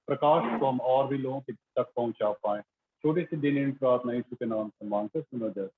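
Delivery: even, slightly subdued praying voice; spoken prayer. Real, not acted. Pastor praying to the Father before the message, evenly and reverently. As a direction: pray aloud in an unbroken, level murmur of devotion.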